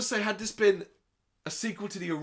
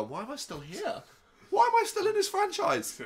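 mock Mila lament; 12 semitones higher than usual. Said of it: "I heard Mila go".

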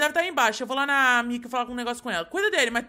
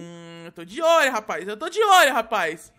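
low warning then a louder burst on olho; suspicious threat; 3 semitones lower, 5 dB louder than usual. Acted. Father warns the baby again, menacing. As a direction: growl it at the little rascal.

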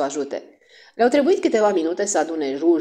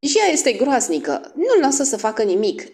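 put-on high, indignant girl; girlish outburst; exclaiming; 7 semitones higher, 4 dB louder than usual. A narrator's reading. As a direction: protest in a high voice. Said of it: "exclamără cele două fete".

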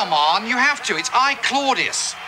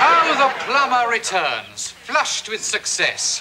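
slow, drawn-out mock heraldry; mock-grand sarcasm; slower than usual. Greets the returning plumber, mock-grand sarcasm. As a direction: announce the homecoming with slow, sardonic pomp.

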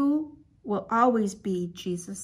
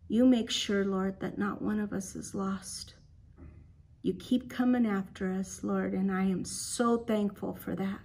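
put-on children's prayer; 2 semitones lower than usual. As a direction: pray gently on behalf of the class.

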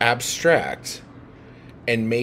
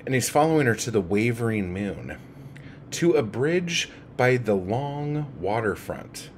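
measured recital of a poem; lightly performed poetry reading. Acted. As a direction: read it out as verse, savouring the images. Reads the poem aloud.

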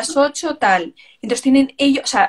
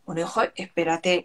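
weary brush-off; 6 semitones lower, 6 dB quieter than usual. Retold or imitated. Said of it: "Y digo".

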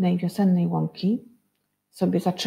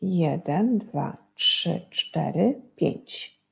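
slow counting, "pięć" nearly breathed; teacher counting letters; much slower than usual. Shown as a demonstration. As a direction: count the letters one by one for the class. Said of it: "I już liczymy".

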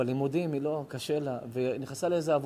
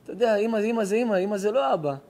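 put-on higher-pitched, choked retelling of the girl's sobbing; imitating a weeping young woman, raised pitch; retold tearful plea; 5 semitones higher than usual. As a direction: plead like a grieving girl through tears. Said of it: "פרצה הבכי".

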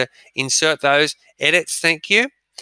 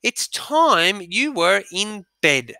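higher, slow, a touch bossy; Susan sounding motherly; 6 semitones higher, slower than usual. Acted. Susan sending Edmund to bed, motherly. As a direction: sound like a big sister playing mum. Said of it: "Trying to talk like mother".

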